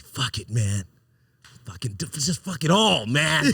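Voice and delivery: mock a guy losing his temper, lightly; mad white guy impression. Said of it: "how some white guys get mad".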